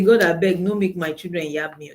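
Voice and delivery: mock prayer. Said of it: "Sisi Glory say".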